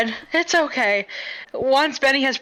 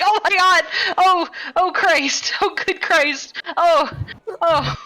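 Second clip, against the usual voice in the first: mock yell; 5 semitones higher than usual. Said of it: "He continues to yell".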